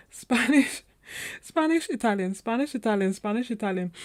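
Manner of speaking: laughing, sing-song Spanish Italian swap; playful back and forth. Shown as a demonstration. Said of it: "how we just go back and forth".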